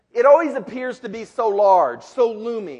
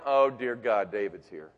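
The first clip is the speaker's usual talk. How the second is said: groaning brothers; 8 semitones lower than usual. Retold or imitated. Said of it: "all his brothers sitting there going".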